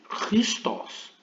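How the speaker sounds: Christos almost voiceless, all throat friction; teacher repeating the sound in a breath; breathed guttural. Shown as a demonstration. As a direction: exhale Christos through a rasping throat. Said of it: "como se tivéssemos pronunciando duplamente o R".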